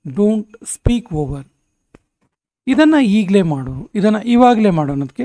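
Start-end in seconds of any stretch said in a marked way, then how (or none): 0.1-1.5 slow teaching demo. Shown as a demonstration. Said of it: "ಅಂತೀವಲ್ಲ".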